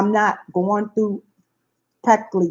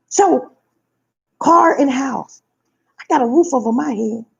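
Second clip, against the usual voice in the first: tearful cry; 3 semitones higher than usual. Real, not acted. Overcome with gratitude.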